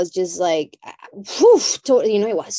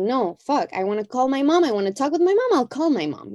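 higher, eager inner voice; impulsive urge; 6 semitones higher, faster than usual. Retold or imitated. Someone to herself about a parent, pitched up eagerly. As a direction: talk yourself into it, higher.

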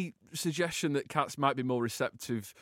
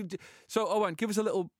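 ordinary delivery

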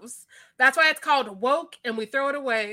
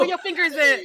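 laughing quote; 3 semitones higher, 4 dB louder than usual. Retold or imitated. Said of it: "I'm gonna be like".

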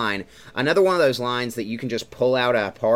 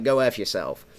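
put-on light Brooklyn accent; a hint of put-on New Yorker. Repeating the film character's joke, light New York accent. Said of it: "that accent".

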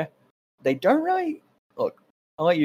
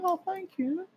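much higher, softer mock girly thank you; 7 dB quieter than usual. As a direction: squeak it sweetly like a swooning girl. Voicing the girl thanking him.

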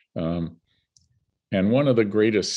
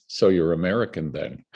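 playful and tart; 3 semitones lower than usual. Retold or imitated. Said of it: "toying, tart".

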